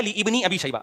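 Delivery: لابن drawn out as "li-ibni"; quoted wrong correction. Retold or imitated. Speaker mimicking the engineer's correction, slow misreading. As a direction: slowly stretch the start of لابن, "li-ibni". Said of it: "ابن ابی شیبہ نہیں ہے".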